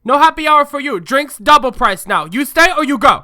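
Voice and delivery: loud, high, hammed-up Asian-accented manager; yelling Asian-accent impression. Co-host translating the yelling manager, mock Asian-accent shout. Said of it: "she's yelling at me".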